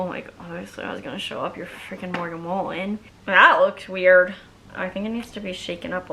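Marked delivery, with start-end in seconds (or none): 0.4-3.0 quick, offhand and casual; playing it cool. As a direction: toss it off like it's no big deal. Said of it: "trying to play it cool".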